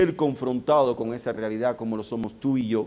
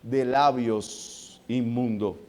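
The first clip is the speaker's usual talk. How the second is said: slow lament; 2 semitones lower, slower than usual. Acted. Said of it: "él sigue diciendo".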